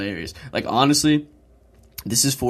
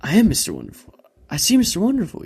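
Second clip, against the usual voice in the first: mock triumphant; 9 semitones higher, 5 dB louder than usual. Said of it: "he goes".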